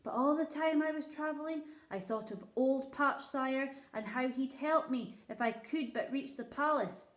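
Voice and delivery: a poor shepherd pleading before his king; rustic old shepherd. Acted.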